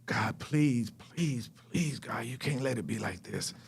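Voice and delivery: low, hushed plea to God; quiet reenacted desperate prayer; pleading prayer. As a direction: beg God softly, slowly trailing down. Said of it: "I did this verbatim".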